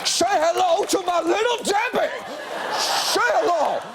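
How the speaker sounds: hammed-up gangster yell; Al Pacino impression. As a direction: ham up Pacino's Scarface. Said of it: "That's not Al Pacino ... saying".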